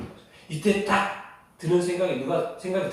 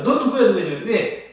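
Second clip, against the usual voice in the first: loud, alarmed questioning; startled demand; 4 semitones higher, 6 dB louder than usual. Acted. Startled sailors pressing Jonah for an answer, alarmed. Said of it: "막 놀래가지고".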